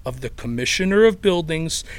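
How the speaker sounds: put-on thick Chicago accent reading dry legal text; deadpan Chicago accent over municipal code. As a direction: read the ordinance like a blue-collar Chicago guy. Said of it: "in that Chicago accent".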